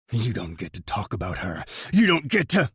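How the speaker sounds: building fury. Acted. Furious threat.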